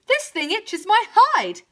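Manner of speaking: high, loud, slow complaint; high aggrieved wail; bellowing cow. A narrator's reading. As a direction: drag it out as an itchy cow. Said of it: "she bellowed".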